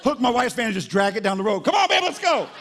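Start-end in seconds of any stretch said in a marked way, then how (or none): 1.6-2.5 high, loud, laughing call; laughing pretend holler; playful call to wife. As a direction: tease the wife like a big kid. Voicing himself towing wife.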